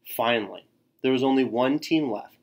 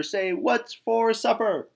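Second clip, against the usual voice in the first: high, slow squawked cheer; loud goofy cheer; 10 semitones higher, 4 dB louder, slower than usual. A narrator's reading. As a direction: ham up the silly cheer. Tacky's triumphant cheer.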